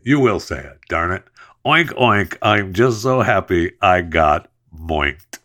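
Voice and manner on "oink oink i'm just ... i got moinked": playful pig-call opener, bouncy and pleased; gleeful customer quote. Pretend. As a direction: ham up the happy customer. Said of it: "I'm gonna guarantee it".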